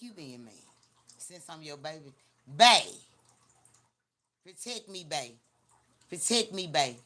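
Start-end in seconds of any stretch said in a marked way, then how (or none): 2.5-2.8 loud, mocking call of bae; a playful, overdone shout of bae; mock sweet-talk shout. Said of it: "That's how you want me to talk". 4.4-5.3 softer, teasing plea of protect me; quiet mocking plea for protection; mock sweet talk. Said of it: "That's how you want me to talk". 6.1-7.0 louder, pushy plea of protect me; playful insistent plea; mock demanding sweet talk. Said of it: "That's how you want me to talk".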